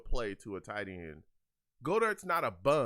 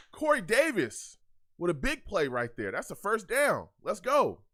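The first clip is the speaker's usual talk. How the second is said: hyped celebration; 3 semitones higher, 6 dB louder than usual. Real, not acted. Celebrating a first down.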